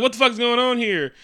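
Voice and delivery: high, loud baffled demand; mock bewilderment. Tony baffled by the fake Mandarin, loudly bewildered.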